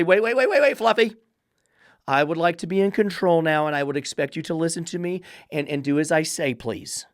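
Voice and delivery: whiny owner begging the dog, trailing off; mock pleading owner.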